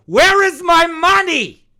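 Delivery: high, slow, loud demanding whine; mock greedy Europe. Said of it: "They go".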